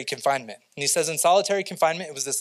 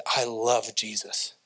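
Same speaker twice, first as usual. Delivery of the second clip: heartfelt confession; 5 semitones lower, 3 dB quieter, slower than usual. Pretend.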